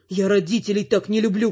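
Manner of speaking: usual speaking voice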